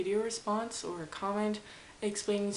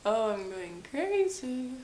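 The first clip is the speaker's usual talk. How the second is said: playful craziness; 2 semitones higher, 6 dB louder, slower than usual. Pretend. Hammed-up reaction to own antics.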